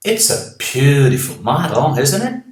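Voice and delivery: "beautiful" read loud and bright; teacher reading the example sentence; loud reading, long U. Shown as a demonstration. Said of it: "Aqui você fala B seguido de U".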